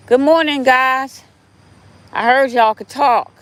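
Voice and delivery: high, bright "good morning" to the animals; cheery greeting. Real, not acted. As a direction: greet the squirrels like little friends. Greets the squirrels directly.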